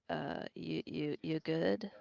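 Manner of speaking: quiet and hesitant, stumbling over you; awkward, soft check-in. Acted. Yavari awkwardly pats Finn's shoulder and asks, soft and hesitant. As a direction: ask it awkwardly, unsure of yourself.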